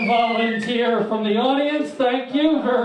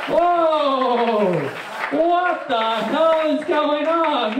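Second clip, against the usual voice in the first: surprised; 4 semitones higher, slower than usual. Acted. Host reacts to the warm-up.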